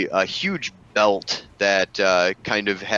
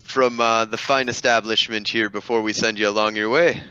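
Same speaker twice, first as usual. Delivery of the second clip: dapper gentleman; 3 semitones higher than usual. Acted. GM voices dapper NPC.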